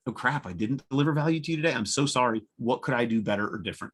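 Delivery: dismayed apology, pitch up at the start; owning a miss to the customer, apologetic; mock dismay. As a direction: blurt it like you just realized you let them down. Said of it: "I'm really good at going".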